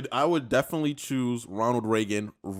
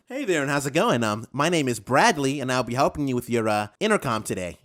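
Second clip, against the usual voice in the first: white guy impression. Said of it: "I can tell you what a white man sounds like".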